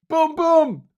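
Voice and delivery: high, loud comic exclamation; hammed-up punchline. Presenter capping a Canadian joke, hammed-up and loud. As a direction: punch it out like a corny comedian.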